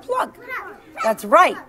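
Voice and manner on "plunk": high, popped plunk; plunk sound. Shown as a demonstration. Teacher showing the class the rock noise, high and bright. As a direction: pop it like a rock hitting water. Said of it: "plunk sound".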